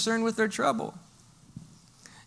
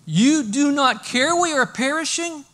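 higher, louder reproachful cry; desperate plea; 7 semitones higher, 5 dB louder than usual. Acted. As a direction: plead with the teacher, stung he sleeps. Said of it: "what it says is".

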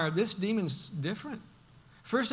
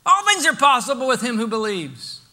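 incredulous; 7 semitones higher, 8 dB louder than usual. Retold or imitated. Preacher voicing Jesus answering the doubting father, incredulous. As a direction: repeat his words back, amazed at the doubt. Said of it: "with an incredulousness in his voice".

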